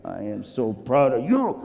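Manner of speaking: tender, fatherly pride; proud master. Acted. Master quietly praises his men.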